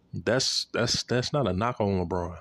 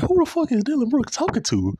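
high, loud shocked yell; shocked outburst; 5 dB louder than usual. Retold or imitated. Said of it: "I'm like".

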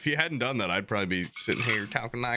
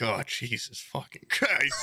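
slow eye-rolling exasperation, retold; slow mock disbelief. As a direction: imitate a fed-up stranger, drawn out. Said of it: "They rolled their eyes".

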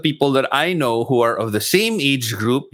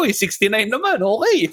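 laughing; 9 semitones higher than usual. Retold or imitated. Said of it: "Tapos yung next ko na ko".

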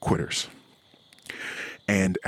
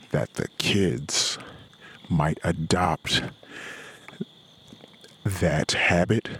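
forced calm; slower than usual. Real, not acted. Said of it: "Let me calm myself down".

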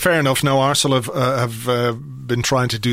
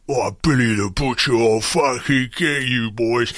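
mock Cockney accent. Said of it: "he does this sort of Cockney London accent".

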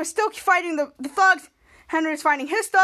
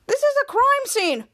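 officer's warning; 9 semitones higher, slower than usual. Acted. Officer stops the kids.

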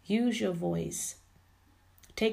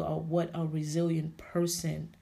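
normal talking voice

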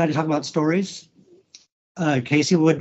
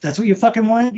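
retold angry snap; 5 semitones higher, 4 dB louder than usual. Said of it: "and I told him to".

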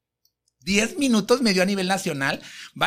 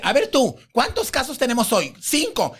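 higher-pitched imitated boss; bossy orders; 4 semitones higher than usual. TV host rearranging today's cases with staff, bossy orders. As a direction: rattle out decisions as the show's host. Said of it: "y le habla y le dice".

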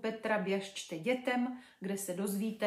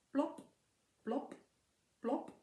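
popping plop sounds; 4 semitones higher, 4 dB quieter, slower than usual. Acted. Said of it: "hlasité plop".

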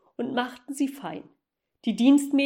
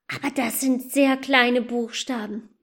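whispered, peering close. Acted. Girl whispers while reading tiny letters on the shoe. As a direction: breathe it while squinting.

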